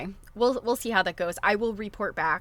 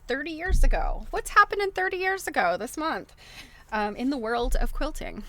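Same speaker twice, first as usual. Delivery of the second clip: rising higher and louder with excitement; eager build-up; 7 semitones higher, 5 dB louder than usual. Real, not acted. Host introduces a vintage quilting magazine, excitedly rising higher. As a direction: sell the throwback, climbing up high. Enthusing about old magazine.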